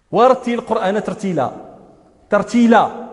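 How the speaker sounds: ترتيلا with a badly formed lam; faulty lam. Teacher mocking an imam's careless recitation, faulty lam in ترتيلا. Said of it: "ايش هذه اللام هذه؟".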